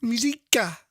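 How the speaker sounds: Musica said "mee-ZEE-ka"; trying out pronunciation. Shown as a demonstration. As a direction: try "Musica" as mee-ZEE-ka, unsure if correct. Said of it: "Is that how you say it".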